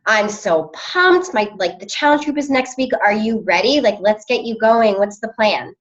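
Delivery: upbeat, pumped and sure; confident. Shown as a demonstration. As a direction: sell it with real enthusiasm. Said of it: "The, the second one has way more confidence behind it".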